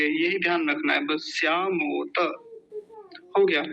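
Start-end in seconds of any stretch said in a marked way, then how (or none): 1.4-2.2 श्यामोत as syaa-mo-ta; full final ta. Shown as a demonstration. Teacher summing up the rule, full-vowel pronunciation. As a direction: finish श्यामोत on an open ta. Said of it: "त को पूरा रखेंगे".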